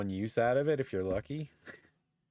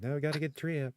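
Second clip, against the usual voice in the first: imitating Riley's freak-out; 8 semitones higher, much faster than usual. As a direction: retell an insistent plea in a higher voice. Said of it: "freaking out about it".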